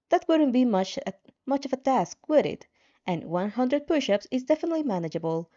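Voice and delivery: lightly voiced game system, quick and high. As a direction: rattle off the rules as the helpful system. Narrator voices the story's system.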